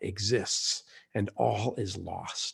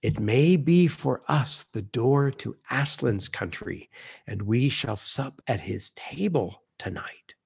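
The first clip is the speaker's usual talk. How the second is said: gentle reassurance sinking to a whisper; a unicorn gently reassuring a frightened girl. Acted. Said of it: "nosing her gently".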